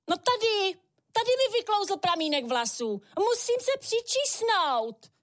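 high-pitched witch with a gentler tone, drawing out the end; softened witch. A narrator's reading. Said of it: "hlas nejméně o tóninu jemnější".

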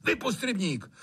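high, quick taunt; mock the keeper with a sneer; sneering master. Trautenberg taunting Hajný to drain the pond.

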